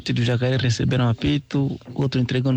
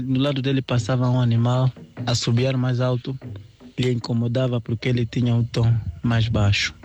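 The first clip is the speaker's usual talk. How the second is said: usual speaking voice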